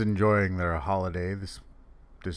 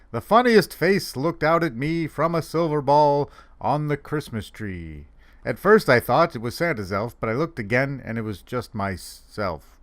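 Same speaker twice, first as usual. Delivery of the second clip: comic poem recital; 3 semitones higher than usual. Acted. Santa reading about a silver ball, in a lilting recital. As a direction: recite the verse to an audience. Reads a funny poem aloud.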